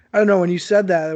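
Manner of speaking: normal talking voice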